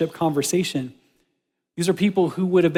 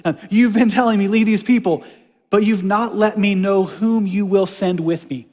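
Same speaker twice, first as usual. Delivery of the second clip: frustrated Moses; 3 semitones higher, 4 dB louder than usual. Retold or imitated. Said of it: "frustrated font from Moses".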